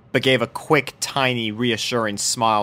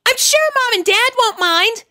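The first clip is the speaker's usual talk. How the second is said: much higher, pleading; begging filly; 4 dB louder than usual. A narrator's reading. Sweetie Belle begging both mares to keep the pugs. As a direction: beg like a little kid. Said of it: "begged Sweetie Belle".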